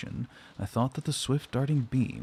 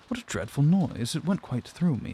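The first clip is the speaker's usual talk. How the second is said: exclaiming; 5 semitones higher than usual. Acted. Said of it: "exclaimed Abbott".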